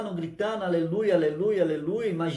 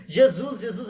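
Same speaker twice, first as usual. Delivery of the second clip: mock shout; 5 dB louder, slower than usual. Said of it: "imagina ele gritando".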